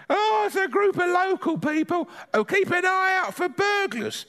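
put-on high, chatty old granny gossiping; a cheeky granny grumbling about the nosy neighbour; Granny's voice.

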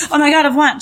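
high, loud burst of elation; retold excitement. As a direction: act out waking up to a win. Retold waking up to a win.

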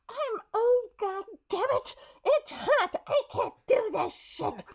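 high, loud, fed-up grumbling; exasperated complaining. Retold or imitated. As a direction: whine it, hot and miserable. Retold overheated actor complaining.

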